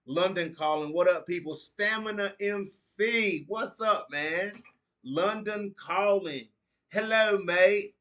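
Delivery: high, loud British greeting; mock British accent. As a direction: call out in a hammed-up, drawn-out British accent. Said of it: "Am I getting better at the British accent".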